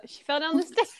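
fighting back a laugh; trying not to laugh. Real, not acted. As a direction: giggle breaking through the last word. Repeats the excuse, laughing.

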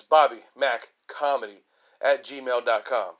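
slow and deliberate, each part clear; slow it down so they catch the address; slow, spelled-out email. Shown as a demonstration. Comedian repeating his email for listeners, slowly.

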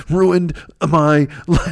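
slow lilting echo in a put-on voice; drunk Irish echo. Dean echoing the line back, slow and lilting. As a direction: repeat it slowly like a tipsy Irishman. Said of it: "And he just goes".

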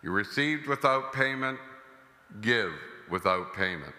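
solemn liturgical reading; Gospel reading. Acted. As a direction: proclaim the Gospel at mass. Priest proclaims the Gospel.

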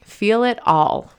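slow and sincere. Shown as a demonstration. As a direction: deliver it slowly, like advice. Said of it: "reads her line".

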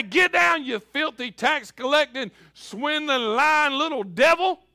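loud and high, spitting out insults; contemptuous yell. Retold or imitated. Crowd yelling scorn at the tax collector, loud and high. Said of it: "he didn't say".

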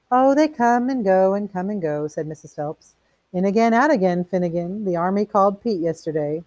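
lightly voiced, breezy party guest; chatty guest. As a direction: rattle on without a care. Mrs Phelps voiced, chattering.

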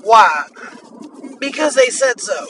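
breathy mock whimper of a quitter; mock their weakness under your breath; hushed mocking impression of a quitter; mocking whine. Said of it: "You up here talking about some".

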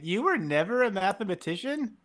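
disbelieving rising question; can't believe what he just heard; incredulous. Real, not acted. Friend hears his tutor was never a mathematician, incredulous. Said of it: "Wait a second".

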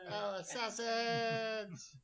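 put-on high, drawn-out west of Ireland accent. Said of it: "That's how you get into the mayo voice".

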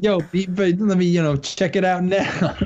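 mock rapper, half laughing; hammed-up hip hop hype man. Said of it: "She's like".

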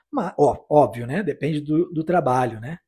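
ordinary talk, nothing marked

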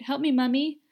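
put-on loud, high child's scream for her mother; a frightened little girl screaming for help; terrified scream. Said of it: "her words dripping with fright".

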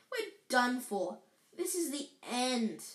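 slow, mildly despairing moan. Acted. Ron to friends at the locked door, moaned. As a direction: let hope drain away. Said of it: "Ron moaned".

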